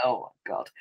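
low, soft, defeated groan of disbelief; despairing mutter. Retold or imitated. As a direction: sink into quiet dismay. Owner despairing at dog.

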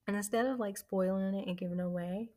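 stumbling over words, excited; excited stutter, tripping on words. Real, not acted. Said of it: "I'm stuttering because I'm getting excited".

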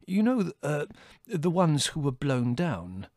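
high, hesitant, slowing scholar; scientific relish. A narrator's reading. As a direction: pick out the words with academic interest. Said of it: "said Theodore with scientific relish".

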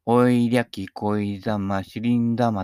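slow mock-foreign lyric in flat Japanese syllables; katakana bossa nova. Mocking singers who learned bossa nova from katakana, flat katakana pronunciation. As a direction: recite the lyric in katakana Japanese, drawn out and even. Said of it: "カタカナボサノバやっちゃう人ね".

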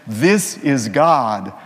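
slow, booming voice from the heavens; voice of God. Acted. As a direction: speak slowly like God from the sky. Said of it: "a voice from the heavens says".

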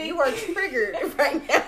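laughing tease. Retold or imitated. Retelling her teasing remark, laughing.

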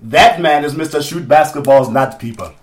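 slow put-on African accent; mock-formal African-accented introduction. Host naming the guest, slow mock African accent. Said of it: "talk with an African accent".

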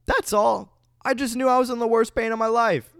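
high, fast, emphatic; high dramatic. Real, not acted. Dramatic retelling.

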